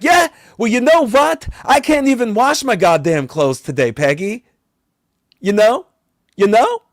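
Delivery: loud, high fed-up rant; exasperated yell. Retold or imitated. Vampire yelling back at Peggy over laundry, loud. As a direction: snap back at her in frustration.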